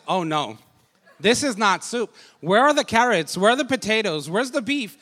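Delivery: wife protests, half laughing; laughing at wife's dismay. Retold or imitated. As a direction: list what's missing in disbelief. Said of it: "she's like".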